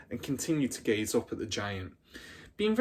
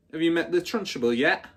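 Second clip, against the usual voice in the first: put-on louder, higher big-girl taunt; bully's taunting question; 6 semitones higher, 6 dB louder than usual. Big girl taunting the two small newcomers, louder and higher. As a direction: loom over them and ask. Bully quizzing the little ones.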